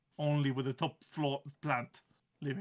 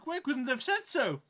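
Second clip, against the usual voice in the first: grumpy plant voice; 9 semitones higher than usual. Acted. GM holds plant voice.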